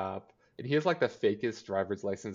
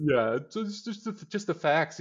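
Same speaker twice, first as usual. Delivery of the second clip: smug mocking; 7 semitones higher than usual.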